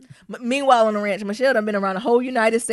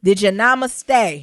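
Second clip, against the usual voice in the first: slow mock question; 4 dB louder, much slower than usual. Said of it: "I'd be like".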